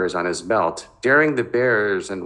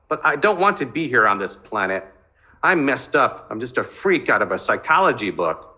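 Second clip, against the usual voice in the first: agitated outburst; 4 semitones higher than usual. Acted. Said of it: "his voice rose with agitation".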